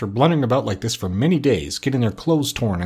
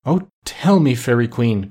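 joyful cry. Acted. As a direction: call out with delight. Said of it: "cried Bumpo, clasping his hands in joy".

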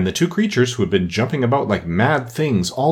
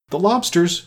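higher, excited interjection; mild shout; 9 semitones higher than usual. A narrator's reading. Gryphon bounding into the air, mildly shouting. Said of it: "shouted the Gryphon".

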